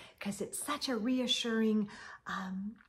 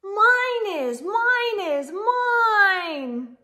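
high, loud sing-song chant of mine; high singsong little-one reply; eager little voices; 8 semitones higher, 10 dB louder, much slower than usual. Acted. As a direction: chant it like an excited toddler claiming. Eager answer to story question.

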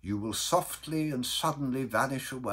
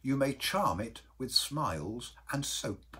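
gentle, softer counsel; mild uncle; 4 semitones higher, 4 dB quieter than usual. Acted. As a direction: advise kindly and mildly, without force. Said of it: "said that mildest of men".

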